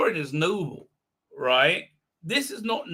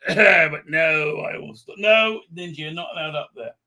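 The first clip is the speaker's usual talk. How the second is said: scolding dog; 5 dB louder than usual. Real, not acted.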